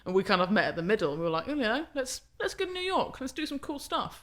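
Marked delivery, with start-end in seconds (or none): 1.5-4.2 lilting, higher-pitched pitch to a friend; eager suggestion. Retold or imitated. Two photographers planning a New York trip, eager. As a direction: float the plan with rising eagerness.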